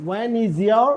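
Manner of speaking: slow, word by word; slowed-down model sentence. Shown as a demonstration. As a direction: spell it out slowly for the class. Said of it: "When is your birthday?".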